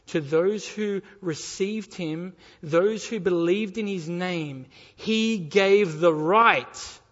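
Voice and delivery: slow, weighty scripture reading; emphatic preaching. Acted. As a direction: proclaim the verse word by word. Reads the verse out forcefully.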